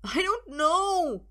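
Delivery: very high, drawn-out whine; loud, high-pitched protest; whining. A narrator's reading. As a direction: wail it helplessly. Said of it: "the man whines".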